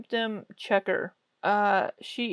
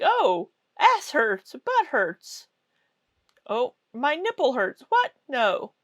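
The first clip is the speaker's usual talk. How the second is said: mock website voice; 4 semitones higher, 3 dB louder than usual. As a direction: read it like a ridiculous menu. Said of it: "and it's like".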